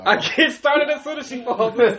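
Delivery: incredulous laughing repeat; laughing echo. Retold or imitated. Repeats the shocking line while laughing.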